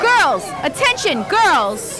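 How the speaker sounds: rallying cry to the troops; calling out. Acted. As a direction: call the girls to attention. Rallying the girls' army.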